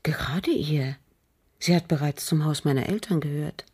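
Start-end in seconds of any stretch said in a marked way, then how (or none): 0.0-1.0 short breathed whisper. Acted. Widow whispering her trust in the cook. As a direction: whisper it firmly.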